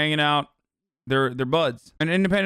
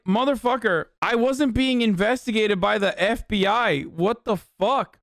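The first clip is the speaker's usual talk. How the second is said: high-pitched mock outrage; pissed-off Tucker Carlson; 7 semitones higher than usual. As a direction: play indignant disbelief, pitched well up. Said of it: "I'd be so pissed".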